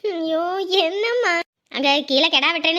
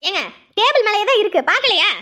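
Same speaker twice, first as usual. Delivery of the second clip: raised, higher-pitched challenge; exasperated retort; 5 semitones higher, 3 dB louder than usual. Acted. Wife telling husband it is on the table, exasperated. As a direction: point it out with irritation. Wife quarrels over misplaced clothes.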